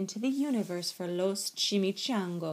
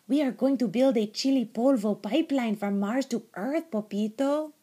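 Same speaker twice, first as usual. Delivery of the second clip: loud, higher emphatic announcement; excited little dog; 4 semitones higher, 7 dB louder than usual. A narrator's reading. Small dog tells kitten the plan, loudly. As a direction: proclaim the plan loudly, punching the words.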